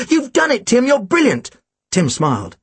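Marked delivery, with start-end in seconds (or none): 0.1-1.5 excited praise. Acted. Excited praise after realisation.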